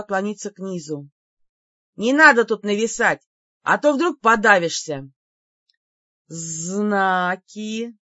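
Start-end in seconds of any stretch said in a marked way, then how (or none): 2.0-5.1 loud cocky jeer; mocking taunt. Heroine mocks the looming demon. 6.3-8.0 a serpent demon hissing; hissed demand. Acted. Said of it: "прошипел демон".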